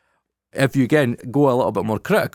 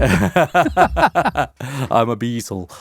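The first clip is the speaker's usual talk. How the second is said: mock Liverpool-band Scouse; much slower than usual. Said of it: "The musician's landed".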